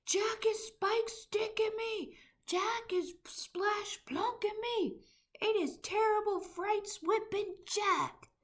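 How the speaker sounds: high, loud, slow panicked wailing; terrified bellowing giant. A narrator's reading. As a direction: howl each line as if beaten. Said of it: "bellowed the flesh lump eater".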